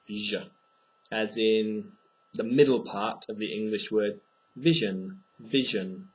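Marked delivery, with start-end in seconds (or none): 0.1-0.5 a buzzing zh; zh sound. Shown as a demonstration. Teacher isolating the zh sound. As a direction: voice the zh like in vision. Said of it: "that gives it a zh sound".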